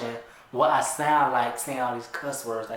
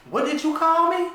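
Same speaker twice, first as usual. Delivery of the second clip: sharp, high and loud, offended; indignant outburst; 13 semitones higher, 7 dB louder than usual. Acted. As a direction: demand it back at him. Justice confronted after insult.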